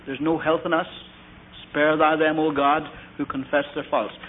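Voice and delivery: even, measured church-prayer cadence; liturgical prayer recitation. Acted. Preacher reciting the confession as congregational prayer.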